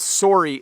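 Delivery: "sorry" with the O of "sore"; Canadian "sorry". Shown as a demonstration. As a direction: make "sorry" rhyme a little with "sore". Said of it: "rhymes a little bit with the word sore".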